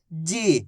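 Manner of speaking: "जी" with the ई held long; drawn-out vowel. Shown as a demonstration. Teacher joining ज and ई for learners, "जी" drawn out. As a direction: stretch "जी" out slowly. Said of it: "बड़ी ई की मात्रा को खींच के पढ़ा जाता है".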